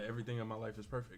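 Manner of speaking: plain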